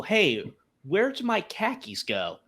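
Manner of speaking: put-on lightly done Boston accent, drawn out. Meme of Boston people missing car keys, mild Boston accent. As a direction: ask it slowly with a Boston accent. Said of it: "And then Boston people".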